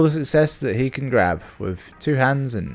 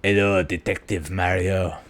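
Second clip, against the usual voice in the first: bad French accent; 3 dB quieter than usual. Shown as a demonstration. Knock-off Poirot greeting Detective Mario, bad French accent. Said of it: "only one bad French accent per chapter".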